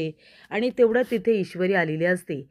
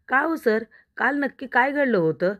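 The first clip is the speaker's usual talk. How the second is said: higher-pitched, lightly acted interrogation; demanding questioning; 5 semitones higher than usual. Ishwari questioning sir about last night, demanding. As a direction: press for an answer, pitch lifted.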